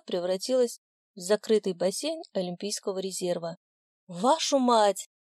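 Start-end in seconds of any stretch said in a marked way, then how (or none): 4.1-5.1 yell. A narrator's reading. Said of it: "заорала Таська".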